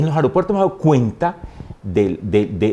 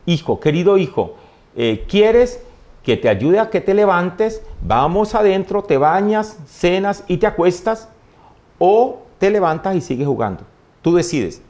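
higher, slow and gentle like a loving mother; tender mother; 5 semitones higher than usual. Retold or imitated. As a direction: coax the fallen child up gently. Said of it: "me dice".

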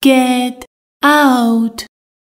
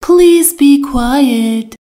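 slow, each word laid out clearly; slow model sentence; much slower than usual. Shown as a demonstration. Teacher to Persian learners, slow and clear. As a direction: spell it out slowly for learners. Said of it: "teacher models an English sentence".

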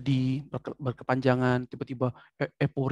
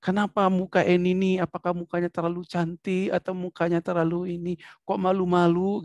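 higher, animated mock questioning; expressive; 4 semitones higher than usual. Shown as a demonstration. Teacher teases student Eni to demonstrate expression, expressive. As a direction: tease with lively intonation. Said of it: "Itu ekspresi kan".

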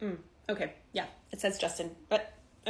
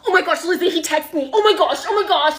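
loud, giddy squeal; thrilled teen; 3 semitones higher, 7 dB louder, faster than usual. Acted. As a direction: gush breaking news to your best friend.

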